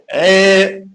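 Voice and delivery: "Eh" in place of an open AH; forbidden eh. Shown as a demonstration. Teacher telling students what not to say, wrong eh. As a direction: show the mistaken "Eh" vowel. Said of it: "We cannot say".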